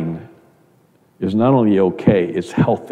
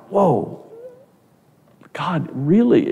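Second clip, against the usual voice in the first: much higher, amazed whoa; surprised whoa; 8 semitones higher, slower than usual. Retold or imitated. Pastor recalls his amazement at God's words, high and surprised. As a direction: gasp at the thought, really amazed. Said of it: "And I thought".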